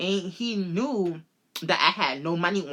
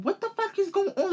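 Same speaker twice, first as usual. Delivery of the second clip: mock panic; 14 semitones higher than usual. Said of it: "I'm like".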